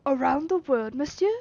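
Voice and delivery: astonished repeat, rising at the end; mild astonished question; astonished echo. Acted. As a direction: echo it back in disbelief. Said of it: "I asked, utterly astonished".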